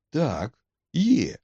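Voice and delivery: loud, high-pitched retort; defiant acceptance. A narrator's reading. McMurdo jumps up to accept a fight, loud and defiant. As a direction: rise to the challenge, punching it out.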